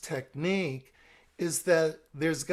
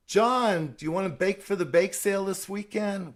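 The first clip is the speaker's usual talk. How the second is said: pushy church friend; 4 semitones higher, 4 dB louder than usual. Shown as a demonstration. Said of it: "Susan Barber is at my church".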